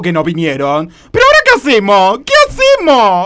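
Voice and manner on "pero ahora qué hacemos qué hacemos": aguda y fuerte, en pánico; entrá en pánico subiendo la voz; desesperación. Acted. Se desespera por el baño tapado. (desesperada, a los gritos)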